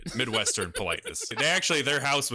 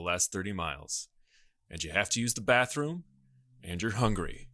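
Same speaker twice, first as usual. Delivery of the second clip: measured, mock-ominous scene setting; suspenseful story narration. Podcaster painting a rainy road-trip picture for colleagues, mock-suspense narration. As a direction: narrate a spooky tale in deliberate phrases with pauses.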